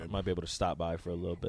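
low, soft, noncommittal; Jay Foreman impression. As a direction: hedge like a busy friend. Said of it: "That's Jay Foreman".

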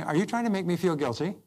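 lightly smiling challenge, rising at the end; demonstrating a friendly challenge; smiling question. Shown as a demonstration. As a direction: ask it with a slight smile. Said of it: "And you smile".

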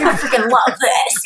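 shouted through a laugh; laughing aside. Retold or imitated. Inner thought, laughing.

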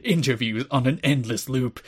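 ominous attack ad narration; political attack ad voice. Retold or imitated. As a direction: read it like a smear campaign ad. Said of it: "said in, like, the full political attack ad".

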